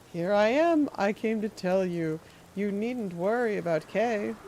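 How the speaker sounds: lightly voiced sinister old man, syrupy; a hint of a creepy gentleman. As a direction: purr it like a courteous creep. Voicing creepy NPC.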